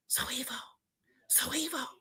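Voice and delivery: urgent hushed phone whisper; retold whisper. Caller whispering to wake a friend at six in the morning. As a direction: whisper the name, imitating a secretive caller. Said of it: "called my motherfucking phone ... morning whispering".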